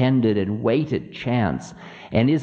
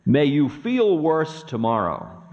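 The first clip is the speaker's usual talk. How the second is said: smiling malice; 5 semitones higher than usual. Acted. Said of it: "Ravana smiled".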